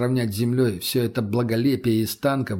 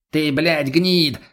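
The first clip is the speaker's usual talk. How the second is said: cut-off angry curse; 4 semitones higher, 4 dB louder, much slower than usual. Acted. Mutny cut off mid-curse.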